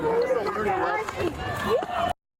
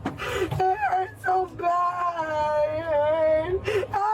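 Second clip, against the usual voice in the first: crying in pain; slower than usual. Real, not acted. Injured woman in pain.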